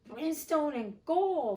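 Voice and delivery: loud, high, slow roar; thundered. Acted. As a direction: thunder it out in rage. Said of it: "thundered Hook".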